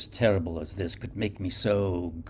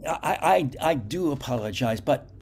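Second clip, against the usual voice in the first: high, halting and anxious; a shaken man waking someone late; nervous stammering; 6 semitones higher, 4 dB louder than usual. Acted. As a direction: stumble over apologies urgently. Garak nervously calls the doctor.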